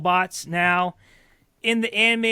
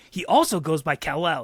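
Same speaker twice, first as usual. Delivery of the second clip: flat, even robotic delivery; deadpan machine voice with no inflection; monotone robot voice; 2 semitones lower than usual. Retold or imitated. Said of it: "in, like, his monotone voice goes".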